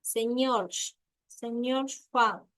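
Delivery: "señor Juan" with the J softened towards an F; dialect pronunciation example. Shown as a demonstration. Teacher showing pupils an example of phonetics, dialect pronunciation. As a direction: say "señor Juan" as a phonetic example, each word set apart. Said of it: "un ejemplo de una letra que dice".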